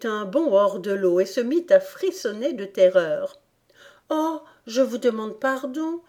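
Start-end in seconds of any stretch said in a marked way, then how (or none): 4.1-6.0 put-on higher, mildly repentant child's apology. A narrator's reading. Alice apologises to the frightened rat, repentant. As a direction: apologise sweetly, pitched up. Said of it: "d'une voix repentante".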